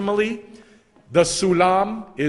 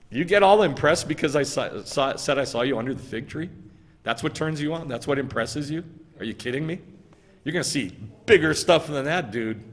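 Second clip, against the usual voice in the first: mocking. Preacher voicing Yeshua teasing Nathanael, mocking. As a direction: scoff lightly at someone too easily impressed. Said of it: "He's mocking him".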